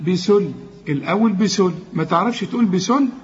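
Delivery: بسل as thin "bisul"; light seen and lam. Shown as a demonstration. Teacher drills the first syllables, thin letters. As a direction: keep both س and ل of بسل light. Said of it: "رققها".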